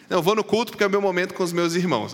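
teasing imitation of a congregant's excuse; mock churchgoer. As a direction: rattle off the excuse like a self-sure churchgoer.

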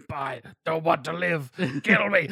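lightly voiced pitiful plea; a mild hammed-up death wish; mock Simpsons plea. Recalling a Simpsons gag, mild mock pitiful plea. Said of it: "like, Simpsons".

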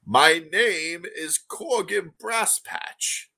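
put-on a prim old gnome merchant, unhurried. GM voicing the gnome.

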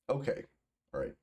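ordinary delivery

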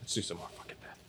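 hushed whisper. Real, not acted. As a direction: whisper it conspiratorially. Conspiratorial aside.

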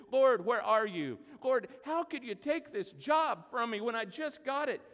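a hint of a fed-up believer; frustrated prayer. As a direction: vent at God, exasperated. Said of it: "gone to God and said".

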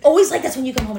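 mock exasperated mom; mom's scolding. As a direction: nag him like a fed-up mother. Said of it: "his mom is like".

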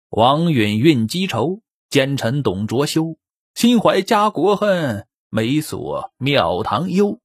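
slow, measured verse reading; storyteller chanting the tribute poem slowly; poem recitation. A narrator's reading. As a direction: intone each line like a classical poem.

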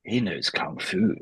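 slow, drawn-out actor impression; slow, understated film-star parody; Keanu Reeves. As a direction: stretch it out like a movie catchphrase. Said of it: "your Keanu Reeves impression".

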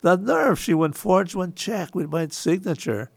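lightly acted indignant store owner; mock indignation. Store owner reacting to a forged check, mock indignant. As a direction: play at being affronted by the nerve.

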